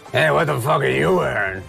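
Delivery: badly faked impression of a comedian; Artie. Co-host mimicking Artie quizzing celebs on fashion, bad impression. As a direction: have a rough go at mimicking a co-worker. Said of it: "horrible Artie impression".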